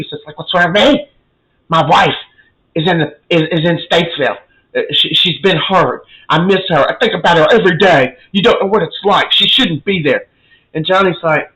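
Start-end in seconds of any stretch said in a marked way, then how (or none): 0.4-10.3 acted indignation, slightly raised voice; worked-up retort. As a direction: throw the question back, then rant mildly. Acts Stefano's worked-up retort.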